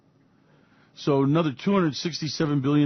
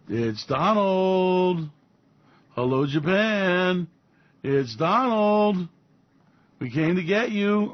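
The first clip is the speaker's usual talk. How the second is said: slow, drawn out, higher menacing knock; mock Trump menace; 3 semitones higher, much slower than usual. Trump calling on Japan at night, slow mock menace. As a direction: stretch each word like a night visitor.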